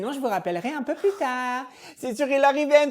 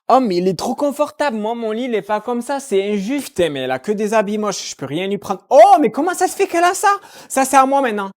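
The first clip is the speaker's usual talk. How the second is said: loud, thrilled discovery of the parents' bed; excited; 10 dB louder than usual. Acted. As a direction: squeal with delight at everything. Seule, excitée dans le lit.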